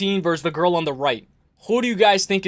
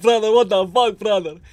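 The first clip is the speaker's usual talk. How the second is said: put-on angry voice with Dagestani accent; 2 semitones higher than usual. Retelling how Khabib reacted to a cameraman, imitating Khabib getting mad. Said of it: "Khabib was like".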